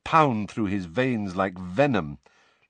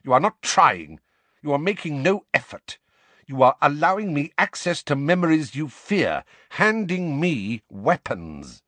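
raised, insistent scolding; sharp rebuke; 5 semitones higher, 4 dB louder than usual. A narrator's reading. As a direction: berate him sharply, starting loud. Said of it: "said Snape sharply".

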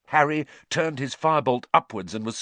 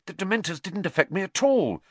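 excitedly; 7 semitones higher than usual. A narrator's reading. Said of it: "Harry said excitedly".

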